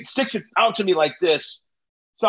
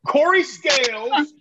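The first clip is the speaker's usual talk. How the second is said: higher, slow and deliberate; slow, pointed; 7 semitones higher, 4 dB louder, slower than usual. Retold or imitated. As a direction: spell out your name, annoyed. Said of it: "And I'm like".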